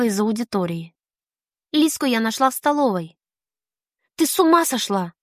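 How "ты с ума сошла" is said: pouncing accusingly. Acted. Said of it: "Накинулась я на неё сходу".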